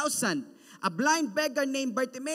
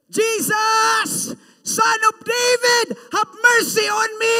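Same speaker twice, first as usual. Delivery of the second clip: very loud high pleading shout; beggar's loudest cry for mercy; shout louder; 9 semitones higher, 13 dB louder, slower than usual. Acted. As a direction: scream it out over the crowd. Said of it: "He even shout louder".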